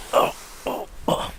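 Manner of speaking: high surprised oh oh; startled yelps. Real, not acted. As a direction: yelp as you slip downhill. Sliding down the dune.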